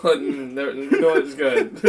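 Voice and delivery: ordinary talk, nothing marked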